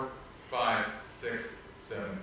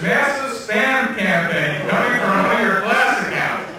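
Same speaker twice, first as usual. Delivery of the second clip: mock alarm; 5 semitones higher, 9 dB louder, slower than usual. Reading the IT complaint email.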